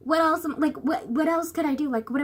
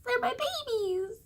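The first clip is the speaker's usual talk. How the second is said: breathy whisper, unvoiced, higher and slow; 10 semitones higher, 6 dB quieter than usual. Real, not acted. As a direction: whisper it fondly like a secret. Whispered, fond of her books.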